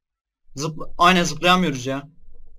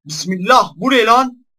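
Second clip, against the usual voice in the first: usual speaking voice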